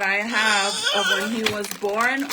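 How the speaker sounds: close to tears. Real, not acted. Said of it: "I literally wanna cry".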